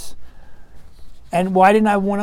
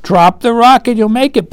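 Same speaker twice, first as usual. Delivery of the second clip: raised, higher calling-out; mock yell; 4 semitones higher, 4 dB louder than usual. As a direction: imitate a crowd yelling encouragement. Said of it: "everybody's yelling".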